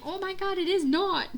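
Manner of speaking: high, loud protest breaking into laughter; laughing protest. Retold or imitated. Sister arguing with brother the movie is not boring, laughing. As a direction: argue back through a laugh.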